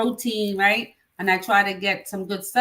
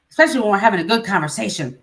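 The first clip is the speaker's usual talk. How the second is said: laughing; 4 dB louder, faster than usual. Real, not acted. Laughing remark.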